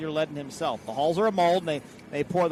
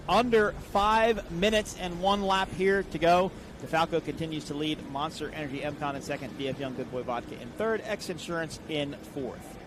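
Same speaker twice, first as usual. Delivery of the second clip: live play-by-play. Acted. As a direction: call the race order for the audience. Race update play-by-play.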